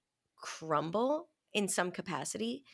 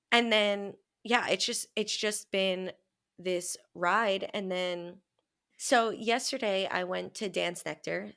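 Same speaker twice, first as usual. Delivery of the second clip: ordinary talk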